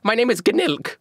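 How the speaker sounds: a lightly voiced gnome-like peddler; quirky merchant. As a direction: proudly present yourself as Gnilk Snobbleglock. GM voices gnome-like seller introducing himself.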